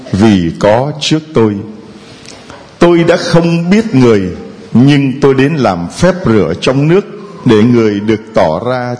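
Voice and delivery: slow solemn scripture reading; Gospel reading. Real, not acted. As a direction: proclaim it slowly from the pulpit. Gospel proclamation at Mass.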